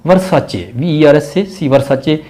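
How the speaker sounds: Versace with ce as che, ver-sa-che; brand name pronounced. Shown as a demonstration. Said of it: "सी ई को आपने C H pronounce करना है".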